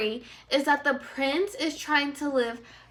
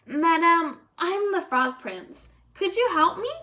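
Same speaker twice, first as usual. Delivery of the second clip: pleading prince; 6 semitones higher, 4 dB louder than usual. Acted. Frog prince begging for help.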